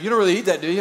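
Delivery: quoting an Indian friend again; Indian accent. Retold or imitated. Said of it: "with an Indian accent".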